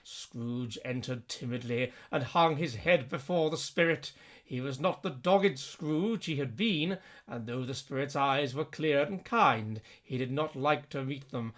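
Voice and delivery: soft, low storybook narration; story narration. A narrator's reading. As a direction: read it quietly and gravely. Narration between ghost lines.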